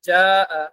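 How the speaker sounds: জাআ with a firm, tight জ; harder consonant. Shown as a demonstration. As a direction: press the জ sound hard. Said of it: "একটু শক্ত". (জ শক্ত করে বলা)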